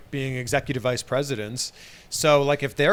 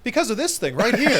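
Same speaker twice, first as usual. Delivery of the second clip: pro wrestler voice; 8 semitones higher than usual. Acted. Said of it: "That's a pro wrestler voice".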